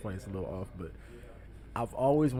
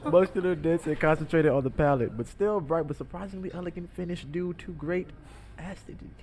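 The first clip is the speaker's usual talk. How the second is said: higher and louder sommelier pitch; animated sommelier; 6 semitones higher, 4 dB louder than usual. Shown as a demonstration. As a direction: sell the wine with gusto. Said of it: "do muscular again".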